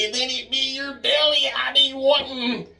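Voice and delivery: high, raspy-sounding leprechaun imitation. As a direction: squeak it out like the leprechaun. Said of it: "but I swear I remember him saying".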